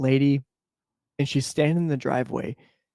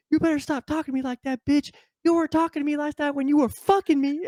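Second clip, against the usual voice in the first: much higher, mock-pleading lady; pleading woman; 14 semitones higher than usual. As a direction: whine like the upset mother in the driveway. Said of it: "the lady's like".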